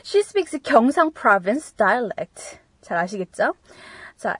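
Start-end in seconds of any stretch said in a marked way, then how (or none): 0.1-2.6 slow, careful teacher read; deliberate classroom dictation; slow model reading. Shown as a demonstration. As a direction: read it out slowly for learners. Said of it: "뭐 이런 거".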